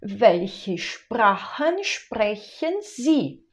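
welche Sprachen sprechen Sie, slow and clear; slow model sentence. Shown as a demonstration. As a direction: spell it out slowly for learners. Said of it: "A gente diria".

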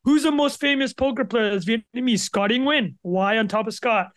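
wired on caffeine, racing; too much caffeine. Real, not acted. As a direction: talk like you're over-caffeinated. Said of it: "I'm absolutely wired right now".

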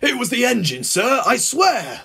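high-pitched frantic plea; panicked babbling. A narrator's reading. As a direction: plead desperately like a babbling child. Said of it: "the driver was babbling like a child".

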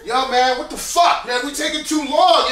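mild street tough grumbling about the delay; ghetto stupid. Shown as a demonstration. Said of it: "the real ghetto stupid".

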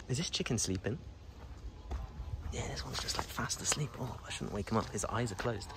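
hushed whisper so the chicken sleeps on. Real, not acted. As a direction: whisper softly, don't wake him.

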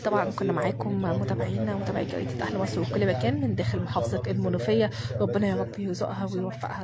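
formal news outro to viewers; reporter sign-off. Real, not acted. Reporter closing the report for the newspaper's followers, formal sign-off. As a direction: wrap up the report for the audience.

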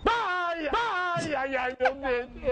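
high moaning in pain; toothache. Pretend. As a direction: groan like a throbbing tooth. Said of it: "Dor de dente?".

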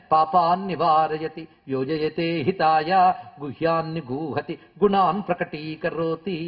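measured, drawn-out chanting of a shloka; slow Sanskrit verse recitation. Acted. Teacher reciting Bhartrhari's verse on friendship to listeners, slow chant. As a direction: intone each line slowly like a recited verse.

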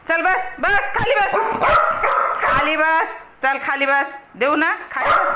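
high, loud order to sit; loud, high-pitched repeated command; insistent pet command. Real, not acted.

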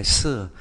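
"sư" pronounced like Chinese sì; "sư" read the Mandarin way; Mandarin four. Shown as a demonstration. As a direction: say "sư" as Mandarin sì, falling. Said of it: "Bốn đọc là".

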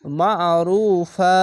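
slow মা আরুফা with a tightened throat on the ain; throat-squeezed ain. Shown as a demonstration. Teacher models the word for learners, slow squeezed recitation. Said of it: "গলা চিপে পড়বেন".

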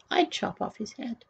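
very soft, sly half-whisper. A narrator's reading. Grand Duke advising the king, whispering. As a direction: drop right down to a secretive hush. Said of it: "whispered the Grand Duke Wilfred".

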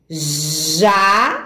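"jaca" split in two, JA, long pause, CA; syllable by syllable. Shown as a demonstration. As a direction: sound out "jaca" for beginning readers, pausing after JA. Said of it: "formamos aqui a palavrinha". ("jaca" lido sílaba por sílaba, com pausa depois do JA)

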